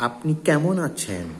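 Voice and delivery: slow, showy polite greeting; affected stylish speech. Shown as a demonstration. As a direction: say it with put-on style. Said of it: "আমরা আবার অনেকে style করে কথা বলি". (ঢং করে বলা ধীর কথা)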